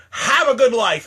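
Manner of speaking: dismissive cheery farewell; curt farewell. Acted. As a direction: snap the goodbye out. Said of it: "saying to every one of you".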